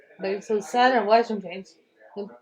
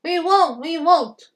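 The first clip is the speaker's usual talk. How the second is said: high, loud defiant chant; high shouted refusal; screaming trucks; 6 semitones higher, 5 dB louder, slower than usual. Acted. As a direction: yell it back like stubborn trucks. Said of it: "Screamed the trucks".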